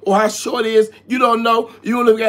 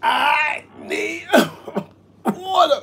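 mock crying plea; 6 semitones higher, 3 dB quieter, much slower than usual. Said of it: "You sound like Fat Albert".

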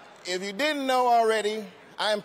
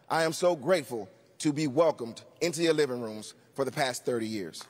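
lower, earnest thank-you; sincere thanks; 5 semitones lower than usual. Real, not acted. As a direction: drop the jokes and thank them sincerely. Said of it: "But seriously".

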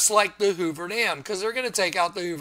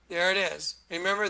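usual speaking voice

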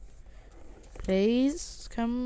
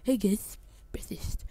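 PewDiePie imitation; 5 dB quieter than usual. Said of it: "like PewDiePie shit".

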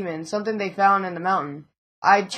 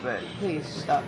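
soft mock plea; 5 semitones lower, 10 dB quieter, slower than usual. Real, not acted. Mock polite to enemy.

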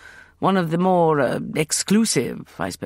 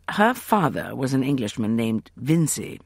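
plain reading voice

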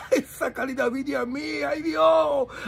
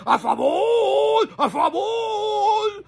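crying plea; 7 semitones higher, much slower than usual. Retold or imitated. Pleading quote, crying shout.

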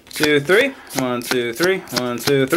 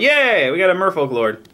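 excited; 4 semitones higher than usual. Real, not acted. Delighted at pulling a Merfolk Lord.

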